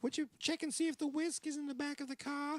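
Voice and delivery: high New York lady voice; New York accent. Retold or imitated. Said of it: "I'm doing the New York accent".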